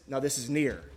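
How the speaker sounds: lightly voiced Grover, back at normal pitch, close by; easy near voice after running back. Preacher acts Grover back at the camera, close and light. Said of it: "and says".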